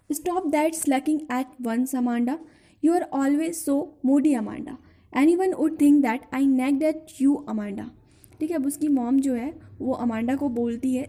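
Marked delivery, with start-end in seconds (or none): 0.1-7.8 slow, drawn-out reading of a scolding; poem recitation. Acted. Teacher reciting the mother's scolding, slow recitation. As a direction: read each scolding line slowly to the class.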